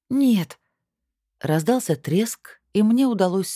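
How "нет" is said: sharp cry. Acted. She refuses, choking.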